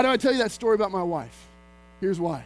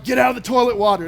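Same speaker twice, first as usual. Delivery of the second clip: loud, fast parental yell; retold loud yell at the baby; yelling at a toddler; 7 dB louder, faster than usual. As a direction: bark it at a kid in the toilet.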